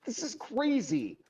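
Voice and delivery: ordinary talk, nothing marked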